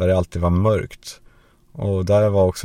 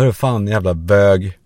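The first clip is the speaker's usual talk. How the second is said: mock angry; 5 dB louder, slower than usual. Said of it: "Och så sa man".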